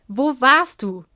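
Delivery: vorgelesener Schrei, etwas lauter; Schreien. Acted. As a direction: Julia schreit Mascha an, mäßig laut. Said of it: "schrie mich Julia an". (Julia fährt Mascha wütend an, laut)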